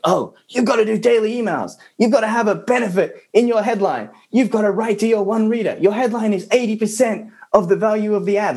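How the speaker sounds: high, sing-song mocking recital; parroting copywriters. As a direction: chant the rules like a mindless copycat. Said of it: "all this dogma that they're just copying".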